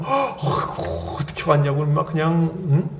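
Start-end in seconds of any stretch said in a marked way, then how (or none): 0.0-1.8 mock overjoyed church welcome; gushing welcome. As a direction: greet a newcomer like a long-lost child. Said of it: "이렇게 하는 거 있잖아요".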